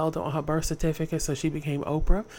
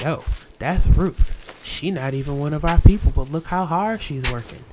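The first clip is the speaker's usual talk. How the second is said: impressed overseer; 6 dB louder than usual. Acted. Overseers gossip.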